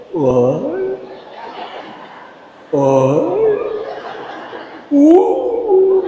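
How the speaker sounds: strange excited grunting rushing to food; greedy oy-oy then a high oo; eager freeloader. Acted.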